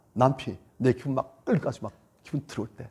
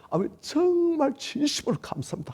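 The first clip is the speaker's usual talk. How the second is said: forced grateful prayer; 13 semitones higher than usual. Acted. Believer praying to the Father, forcing out higher thanks. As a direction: squeeze out a thank-you you don't feel. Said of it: "아버지 앞에 나서".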